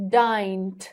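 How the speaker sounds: Dined said as dint, a hard unvoiced T at the end. Shown as a demonstration. Teacher showing the awkward T ending on dined. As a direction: finish Dined on a T instead of a D. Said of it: "more difficult to use t at the end".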